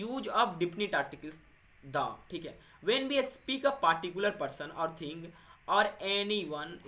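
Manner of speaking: slow, deliberate reading aloud from the book; slow textbook reading. Acted. Teacher reads the book's definition slowly to students. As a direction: read each word out slowly for the class.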